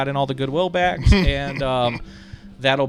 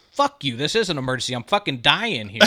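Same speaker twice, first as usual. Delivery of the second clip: fast, heated snap at the lifeguard; angry retort. Retold or imitated. To the lifeguard at the ladder, a fast angry retort. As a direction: fire it back quickly, annoyed. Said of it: "And I go".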